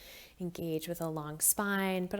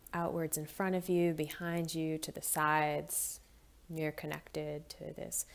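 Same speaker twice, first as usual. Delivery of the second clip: calm, gently hushed meditation guide; guided meditation; 4 dB quieter than usual. Acted. Volunteer guiding listeners through body and breath, calm meditation voice. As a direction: guide them gently, leaving long pauses between phrases.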